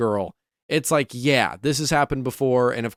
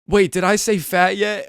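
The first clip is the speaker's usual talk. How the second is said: higher, louder smug afterthought; cocky heel quip; 8 semitones higher, 5 dB louder than usual. Retold or imitated. Heel Theory mocking Otis again, smug higher quip. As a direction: toss the insult off with mock innocence. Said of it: "And he goes".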